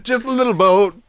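giggly, high and playful; laughing sing-song. Acted.

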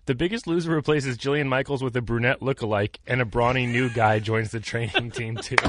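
headline read. Retold or imitated. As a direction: read it like breaking news. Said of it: "the headline".

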